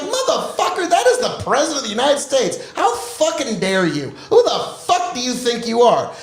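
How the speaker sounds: a hint of real anger under the laugh; laughing mock outrage. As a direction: scold Twitter while cracking up. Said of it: "He's like".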